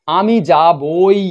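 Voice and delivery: "আমি যাবই" drawn out slowly, rising; firm certainty. Shown as a demonstration. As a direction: press "যাবই" slowly to show you will surely go. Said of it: "নিশ্চিত বোঝানোর জন্যে". (ধীরে জোর দিয়ে "আমি যাবই")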